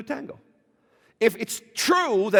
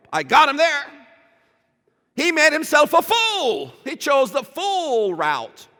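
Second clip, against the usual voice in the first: gloating; 7 semitones higher, 6 dB louder than usual. Retold or imitated. Gloating recalled thought.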